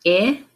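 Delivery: I as the short "ih" in win; isolated vowel sound. Shown as a demonstration. Teacher naming the vowel to swap, I said as short "ih". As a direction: say I as a lone "ih", not "eye". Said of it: "change the vowel sound".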